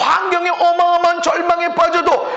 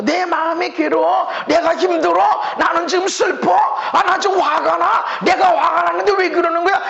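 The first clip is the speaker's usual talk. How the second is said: whiny complaint; 3 semitones higher than usual. Retold or imitated. Voicing self-centred complaints.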